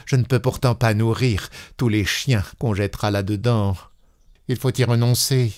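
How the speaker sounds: a lightly sour, grudging voice; a touch of sourness as she gives up on the dog. Acted. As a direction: grumble it with mild bitterness. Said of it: "d'un ton aigre".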